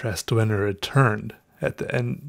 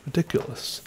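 whispered self-mocking aside; breathy aside; 3 semitones higher, 6 dB quieter than usual. Real, not acted. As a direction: breathe it out, amused at yourself. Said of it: "out of breath just talking".

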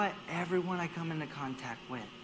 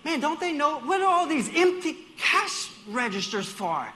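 higher, louder exasperated complaint; annoyed grumbling; 7 semitones higher, 7 dB louder than usual. Retold or imitated. In the checkout line behind coupons, exasperated complaint. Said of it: "And you're like".

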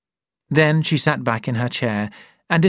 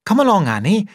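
called out, higher and louder; calling out; 9 semitones higher, 5 dB louder, faster than usual. A narrator's reading. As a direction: call her in briskly. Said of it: "cried Miss Page".

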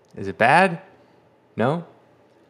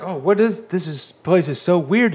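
mock awed character; 7 semitones higher, 4 dB louder than usual.

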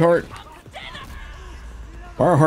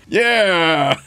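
imitated happy cheer; 4 semitones higher than usual. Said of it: "She's like".

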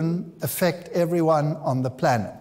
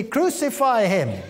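slow, raised mob cry; crowd crying out; 5 semitones higher than usual. Retold or imitated. Crowd crying out more exceedingly, slow raised cry. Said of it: "they cried out more exceedingly".

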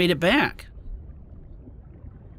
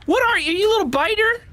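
high cooing voice; 3 dB louder than usual. Real, not acted. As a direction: coo at the little biter. Talking to creature.

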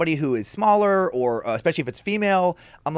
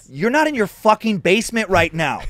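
retold scolding; 4 semitones higher, 6 dB louder than usual. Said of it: "I'm like".

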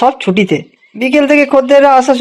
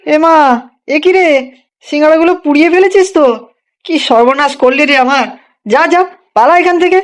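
angry scolding; 3 semitones higher than usual. Acted. Kaku finds burnt singaras, scolds.

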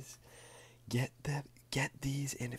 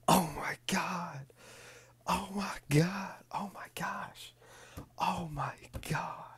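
awed whisper; 6 semitones higher, 5 dB louder than usual. Real, not acted. Awed at another rare pull.

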